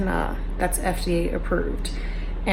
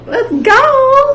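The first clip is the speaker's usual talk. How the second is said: loud high cheer; excited shout; 12 dB louder than usual. Real, not acted. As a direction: yell it out in celebration. Cheering, celebrating in car.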